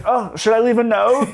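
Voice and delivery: high, loud and airy with a laugh; mock innocent question. Retelling a singer hitting a car, high laughing ditzy question. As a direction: play it ditzy and clueless. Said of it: "she's like".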